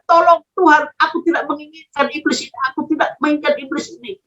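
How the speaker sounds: high-pitched plea, softening after the first cry; imitating an urgent silent prayer; retold inner plea. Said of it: "tetap berseru kepada Tuhan".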